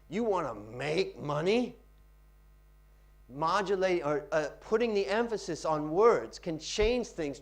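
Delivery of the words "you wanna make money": slow, with weight on "make"; stress on MAKE. Shown as a demonstration. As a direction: punch "make" before "money", taking your time. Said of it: "Practice how to stress different words".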